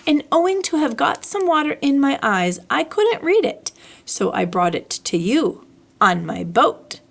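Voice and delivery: put-on a touch of a childlike bear telling his tale; lightly voiced Pooh. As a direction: explain simply like a small proud bear. Narrator voices Pooh's explanation.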